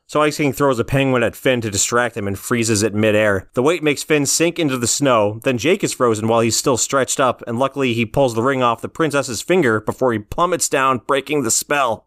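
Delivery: rushed without a breath; one long breath, no pauses; all in one breath. Real, not acted. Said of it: "got that all out in one breath".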